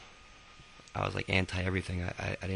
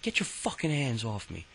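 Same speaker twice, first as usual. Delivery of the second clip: higher, mildly heated retort; a touch of anger, pitched up; retold angry protest; 5 semitones higher than usual. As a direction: act out an indignant demand. Acted quarrel with the principal.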